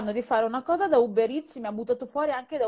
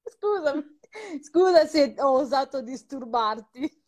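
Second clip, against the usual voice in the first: slow, exaggerated sarcastic apology; over-polite mock apology; mock apologetic; 4 semitones higher than usual. Mocking the assistant's reply. (scuse ironiche, lente)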